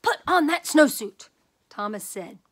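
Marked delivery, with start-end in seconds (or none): 0.0-1.3 mother yelling, higher and louder; exasperated shout. Acted. Mother shouting at Thomas, furious. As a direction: bellow the order at the stubborn boy. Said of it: "jumped up and down and said".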